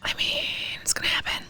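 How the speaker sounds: whispered aside; whispering. Real, not acted. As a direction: drop to a whisper. Unvoiced aside.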